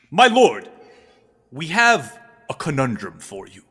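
proclaiming guard, punching the key words; formal guard. Acted. Tallest guard presents two women to his lord, declaiming. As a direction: announce the case to the throne.

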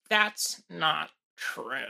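a hint of a tipsy newscaster, slowed right down; drunk-sounding anchor. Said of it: "She sounds like s-, super, super".

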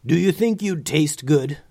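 a hint of growl in the question; growled dragon question. A narrator's reading. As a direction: dragon toying with its possible meal. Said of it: "growled the gray dragon".

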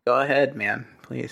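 reluctant encouragement, dropping away at the end; unenthusiastic. Real, not acted. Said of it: "You don't sound enthusiastic about it".

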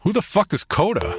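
high, incredulous question; baffled outburst. Acted. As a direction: blurt it out in disbelief.

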